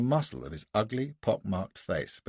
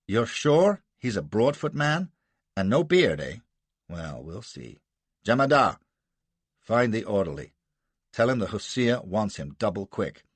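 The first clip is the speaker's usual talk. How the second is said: a lightly voiced commanding colonel; Gardner, brisk American colonel. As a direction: order people about, sure of yourself. Gardner giving orders.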